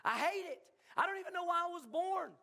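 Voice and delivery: hammed-up lament from Job; Job's lament. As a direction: voice Job moaning that he hates his life. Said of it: "Then Job, like".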